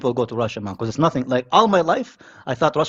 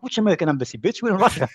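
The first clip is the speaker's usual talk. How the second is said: mocking retort; 4 semitones higher than usual. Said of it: "I'm like".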